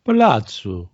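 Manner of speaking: a careful Portuguese palazzo; Portuguese accent. Shown as a demonstration. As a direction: try palazzo as a Portuguese speaker would. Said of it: "that was your Portuguese accent".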